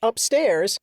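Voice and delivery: ordinary delivery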